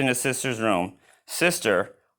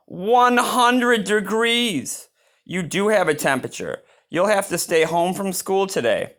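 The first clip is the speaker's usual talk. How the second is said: mama's surprise; 9 semitones higher than usual. Acted. Mama reading Sister's thermometer, gently alarmed. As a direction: stretch out the shocking number.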